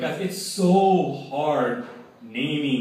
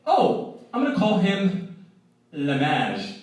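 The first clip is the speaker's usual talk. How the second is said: high, bright-eyed mock patient, much higher; proud patient voice; 6 semitones higher, slower than usual. Mother-to-be answering the med student, voiced much higher.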